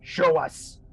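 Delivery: eerie voices in unison; two-voiced monster. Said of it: "at the same time, they go".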